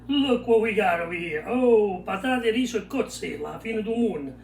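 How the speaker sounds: loud, thrilled presentation; proudly showing off the dish; excited. Real, not acted.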